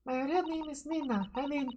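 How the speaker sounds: a hint of a Russian girl; Russian accent. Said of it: "a Russian female voice".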